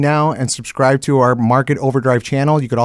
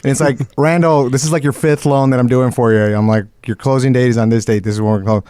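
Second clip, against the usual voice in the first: Southern twang; 4 semitones lower than usual. Retold or imitated. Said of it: "this Southern twang where he's like".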